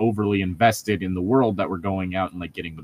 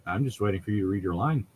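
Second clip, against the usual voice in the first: soft teasing whisper; 6 dB quieter than usual. Real, not acted. Host whispers to friend to read her line, teasing hush. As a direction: whisper it back as a playful nudge.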